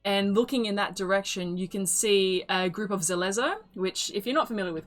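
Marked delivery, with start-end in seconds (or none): none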